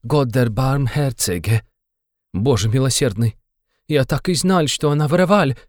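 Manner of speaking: a hint of German-accented Russian. A narrator's reading. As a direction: exclaim it like a flustered German landlady. German landlady Amalia Ivanovna exclaiming.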